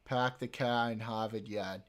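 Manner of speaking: Boston accent, dropped r's; Boston accent demo. Shown as a demonstration. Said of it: "I'm going to the car".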